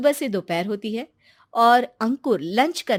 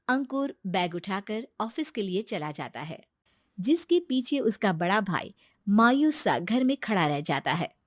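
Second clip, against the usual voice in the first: story narration. A narrator's reading. Narrator telling the listeners about the two brothers, calm storytelling. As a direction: tell the tale evenly, a little hushed.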